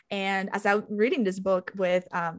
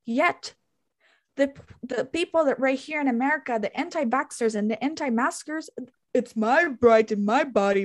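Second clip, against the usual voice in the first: higher-pitched mock outburst, replaying the fury; hammed-up angry rant at lawmakers; retold rage; 4 semitones higher than usual. Retelling her rant at abortion laws, higher and indignant. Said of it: "I was ragingly hot".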